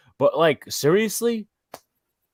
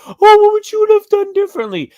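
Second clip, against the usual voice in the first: much higher, louder mocking whine; mocking homers; 6 dB louder than usual. Host mocking Yankees homers on Twitter, high whiny mock voice. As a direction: squeak it out like a whiny fan you despise. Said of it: "a bunch of homers on here on fucking Twitter".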